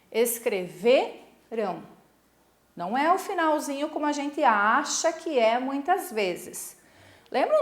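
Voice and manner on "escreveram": "Escreverão" said slowly as escre-VE-ram, broken after VE; stress on VE. Shown as a demonstration. Teacher pointing out the tonic syllable, VE stressed in "Escreverão". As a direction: stretch the VE in "Escreverão", then let the ending drop. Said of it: "aqui, ó, V".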